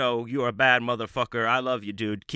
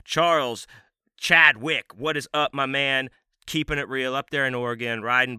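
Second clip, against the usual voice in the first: big, loud, pumped call-out of a name; hype shout-out; 3 semitones higher, 5 dB louder than usual. Real, not acted. Host hypes a Patreon supporter with a loud shout. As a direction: bellow his name like a ring announcer.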